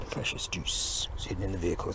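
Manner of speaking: breathy secret whisper. Pretend. Whispered mock line.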